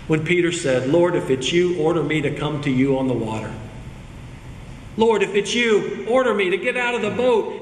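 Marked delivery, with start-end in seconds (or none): 5.0-7.6 higher, urgent repeat of a quote; emphatic plea. Acted. Peter asking the Lord to order him out, emphatic plea. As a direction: press the request with raised pitch.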